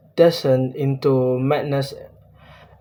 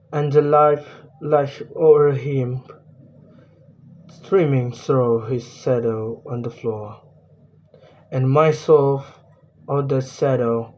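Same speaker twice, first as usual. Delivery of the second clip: poem recitation. Acted.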